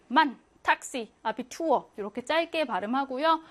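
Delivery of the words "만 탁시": slow 만, 탁시 with short a; German Mann, Taxi; short vowels. Shown as a demonstration. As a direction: say 만 and 탁시 with a short crisp a, slowly. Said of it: "이럴 때는 짧게".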